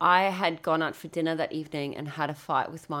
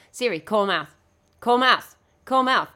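louder with each repeat; retold insistent voice command; 3 semitones higher, 6 dB louder than usual. Retelling a failed call to Siri, insistent. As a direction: command a phone assistant, growing more insistent.

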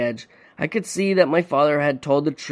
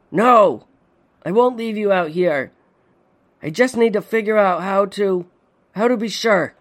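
desperate refusal; 6 semitones higher than usual. A narrator's reading. Son refusing to abandon his father, desperate. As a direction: refuse to leave him.

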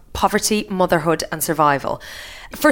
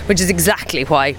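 podcast host intro. Acted. Host reads show intro.

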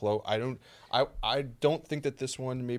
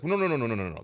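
emphatic no; 3 semitones higher, 3 dB louder, much faster than usual. Retold or imitated. Acting out his pushback.

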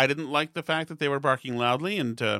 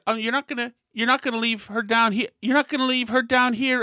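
higher, scandalised busybody voice; disapproving woman; 7 semitones higher than usual. Retold or imitated. Woman scolding a father at the escalator, higher scandalised tone. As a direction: play the shocked meddling shopper. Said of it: "and she said".

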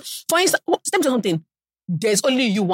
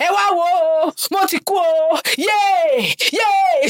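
wailing mother; 7 semitones higher, slower than usual. Retold or imitated. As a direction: scream for the whole market.

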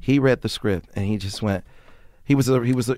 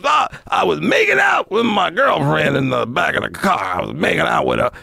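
Redd Foxx voice; 4 semitones higher than usual. Retold or imitated. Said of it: "And he goes".

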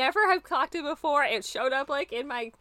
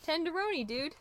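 Ninja Turtle voice; 5 semitones higher, 5 dB quieter than usual. Retold or imitated. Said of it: "something a Teenage Mutant Ninja Turtle would say".

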